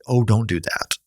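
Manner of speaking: only a hint of the coddling voice; lightly voiced hush. Counselor quotes the hushing line nearly plainly. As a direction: say it almost in your own voice, a faint hush. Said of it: "but don't say".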